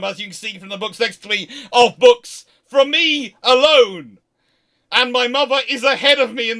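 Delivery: a comic wail over boxes of books; exasperated exclaiming. Real, not acted. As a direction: play up the horror of too many books. Exasperated boast about packing books.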